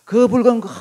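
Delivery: hammed-up hungry cry; mock desperate craving; famished Esau. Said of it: "하고 오니까".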